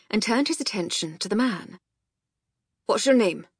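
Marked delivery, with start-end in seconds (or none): 2.9-3.5 put-on gruff Scottish accent, brisk question. A narrator's reading. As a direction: ask it as a gruff Scot. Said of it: "Mac's gruff Scottish voice".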